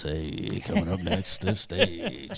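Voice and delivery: slow, deep, sultry, sexy announcer voice. Imitating a strip club stage announcer: imitating a deep, sexy announcer voice. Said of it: "that deep, sexy, nasty voice".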